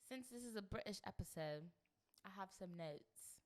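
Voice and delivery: light put-on British accent; a hint of posh British English; lightly voiced British accent. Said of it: "Why are you doing the accent?".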